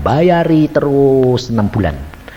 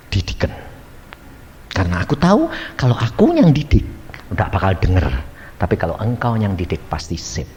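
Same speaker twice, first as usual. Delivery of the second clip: right prayer; 7 semitones lower than usual. Shown as a demonstration. Preacher shows the trusting prayer a wife should pray. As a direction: hand it over to God gently. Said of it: "kamu harusnya begini".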